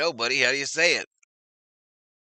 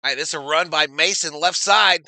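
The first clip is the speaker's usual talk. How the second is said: live play-by-play; 3 semitones higher, 7 dB louder than usual. Real, not acted. Calls a run live.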